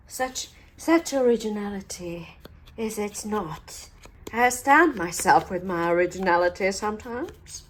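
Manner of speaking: mock self-admiration, drily overdone; sarcastic. Real, not acted. Crafter mocking her own repeated flowers, sarcastic. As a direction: pretend to be amazed by yourself. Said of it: "a little bit more sarcasm there".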